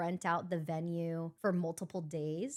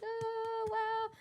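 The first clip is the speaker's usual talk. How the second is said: touched awe; 13 semitones higher than usual. Retold or imitated. Retold touched reaction to winner.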